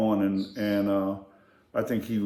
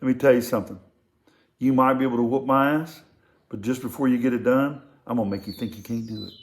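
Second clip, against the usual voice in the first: tough instructor; faster than usual. Retold or imitated. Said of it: "gets right in his face and goes".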